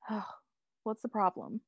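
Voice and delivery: retold exasperated "Oh", then the question; mock exasperation. Talia after arguing with Tim, mildly exasperated. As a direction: imitate someone wearily fed up. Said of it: "exasperated after the whole entire thing with Tim".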